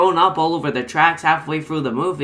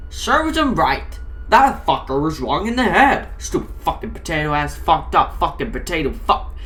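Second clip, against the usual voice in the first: Ken ranting. Acted. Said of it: "Ken said".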